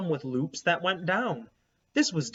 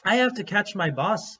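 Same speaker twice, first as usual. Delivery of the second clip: sweetest smile; 6 semitones higher, 5 dB louder than usual. Acted. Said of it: "with her sweetest smile".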